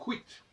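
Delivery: "quit" said the English way with a kw sound. Shown as a demonstration. Lecturer citing the English pronunciation of quit. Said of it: "en anglais on le dit".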